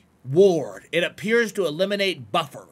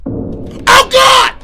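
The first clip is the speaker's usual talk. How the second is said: high loud scream of fright; startled scream; 14 dB louder than usual. Real, not acted. Streamer startled by the game, screaming. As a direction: shriek at the scare. Jump scare in horror game.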